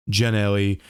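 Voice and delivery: "Gianelli" in three syllables with a hard English J, ja-NEL-ee; pronunciation variant. Shown as a demonstration. Showing friends another way to say his name, "Gianelli" as ja-NEL-ee. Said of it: "many ways you can say my name".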